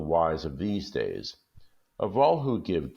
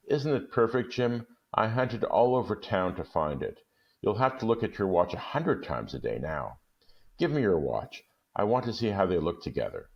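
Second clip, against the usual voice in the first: eager Della; 4 semitones higher than usual. Acted. Della eagerly shows gift.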